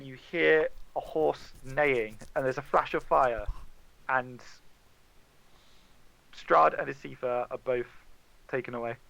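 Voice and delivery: ordinary talk, nothing marked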